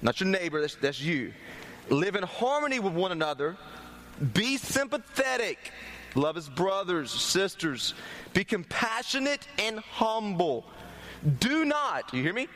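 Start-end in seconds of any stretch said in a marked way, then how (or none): 1.9-12.1 measured, punched-out Bible reading; scripture reading. Acted. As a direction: read the verse out, leaning on key words. Reads scripture aloud to congregation.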